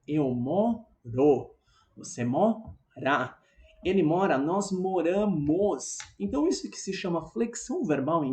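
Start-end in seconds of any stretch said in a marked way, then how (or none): 0.1-6.0 slowly spelled-out conjugation; deliberate teacher's demonstration pace; slow demo. Shown as a demonstration. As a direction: say each form slowly and clearly.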